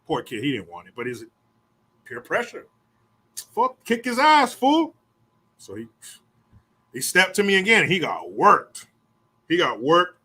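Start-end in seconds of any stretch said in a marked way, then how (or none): 3.6-4.9 high, loud shout to fight; egging him on. Retold or imitated. Homeboy pushing the kid to fight, high shout. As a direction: goad him into it.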